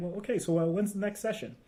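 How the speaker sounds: bone-dry, matter-of-fact delivery. Speaker acts out how he ended sessions with clients, retelling a deadpan line. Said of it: "like almost deadpan".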